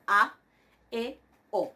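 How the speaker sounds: A, E, O as pure separate vowels; iota muda. Shown as a demonstration. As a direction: sound only A, E, O, with no i glide after. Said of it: "Yo pronuncio eso". (A, E, O, sin pronunciar la iota)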